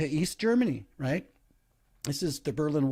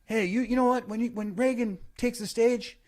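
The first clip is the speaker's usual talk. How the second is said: cabbie; 7 semitones higher than usual. Retold or imitated. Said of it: "the cabbie said".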